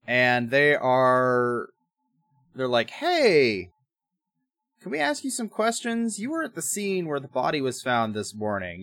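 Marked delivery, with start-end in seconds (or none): 2.9-8.8 higher-pitched acted cop voice; lightly put-on friendly questioning, starting high; mock police questioning. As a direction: play the cop calling over a witness. Police question the newspaper man.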